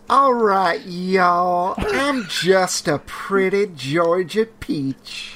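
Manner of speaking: slow, hammed-up Southern belle accent. Co-host shows off on request, Southern belle accent. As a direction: play a sweet Georgia peach, Southern accent. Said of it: "went immediately to Southern Belle".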